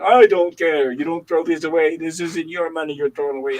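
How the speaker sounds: mock indignant owner, loud at the start; hammed-up telling-off, easing as it goes; imitated scolding boss. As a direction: imitate a stingy boss brushing off protests. Retold boss scolding the cook.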